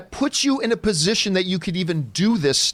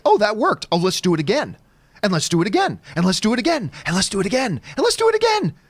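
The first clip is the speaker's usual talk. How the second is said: imitating a maze rat; faster than usual. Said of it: "a rat that finds its ways through a maze is like".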